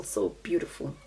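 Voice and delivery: hushed whispered repeat. Real, not acted. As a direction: echo it in a soft whisper. Echoes her own words, unvoiced.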